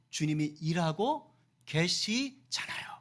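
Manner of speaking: "주님이", "일하고", "계시잖아요" slowly, with pauses between; slow emphatic phrasing. Real, not acted. Preacher assuring the congregation, slow and broken up for emphasis.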